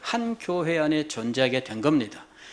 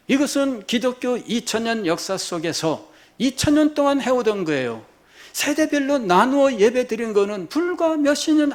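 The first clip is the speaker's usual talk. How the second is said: higher-pitched, insistent pulpit voice; raised, emphatic sermon delivery; forceful preaching; 7 semitones higher, 4 dB louder than usual. Real, not acted. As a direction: drive the point home to the congregation.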